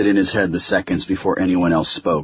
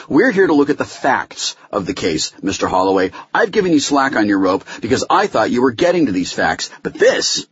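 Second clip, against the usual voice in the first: higher, emphatic scolding from the bench; stern rebuke; 6 semitones higher than usual. Acted. Judge reprimands Holloway over the facts, in stern rebuke. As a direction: lay down the law, exasperated. Judge berates lawyer in hearing.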